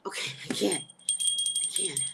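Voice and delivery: breathy, defeated whisper of I can't; giving up under her breath; hushed overwhelmed sigh; exasperated whisper. Real, not acted. Overwhelmed reading vaccine news.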